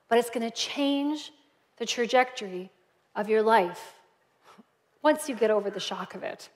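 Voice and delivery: soft, unhurried, with long pauses; gentle invitation. Acted. Jesus inviting reluctant visitors to come, gently. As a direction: invite them tenderly, hushed and spaced out.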